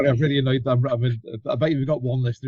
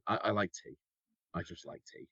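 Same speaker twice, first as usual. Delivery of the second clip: whisper; 3 semitones lower, 11 dB quieter than usual. Real, not acted. Muttered confession after coffee talk.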